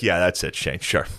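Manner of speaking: low, dry imitated sarcasm; imitating a grumpy, sarcastic reply; mean sarcasm. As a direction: brush off the accusation sourly, voice dropped. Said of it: "he's always so mean on Mondays".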